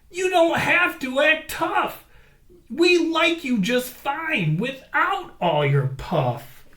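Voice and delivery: high ram voice, firm then gentle; kind ram. A narrator's reading. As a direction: reassure him. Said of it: "said the ram".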